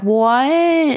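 high, drawn-out incredulous "what"; acting out a bewildered waking; startled. Host acting out the man waking up, high startled cry. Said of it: "he wakes up and he's like".

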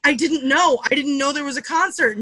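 mock-upset pleading; upset mother, retold. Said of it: "she was so upset".

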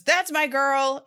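proud dad cheering. Retold or imitated. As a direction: cheer from the stands, drawn out. Quoting proud dad in stands.

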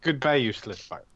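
put-on curt farewell in a light Drow accent; a touch of Drow accent, dismissive. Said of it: "I'll miss your accent".

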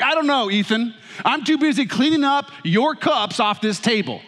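mock dramatic dad. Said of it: "very loudly and dramatically".

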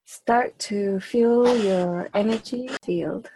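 slow, drawn-out meditation guidance; spaced-out phrases with long pauses; guided meditation. Acted. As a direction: lead a group into stillness, unhurried. Leads a group meditation.

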